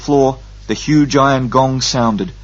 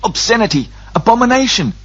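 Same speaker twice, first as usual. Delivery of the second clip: high, choked disgust; strangled zealot's revulsion; strangled outrage; 12 semitones higher than usual. A narrator's reading. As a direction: spit it out as if strangling. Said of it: "Relg was strangling".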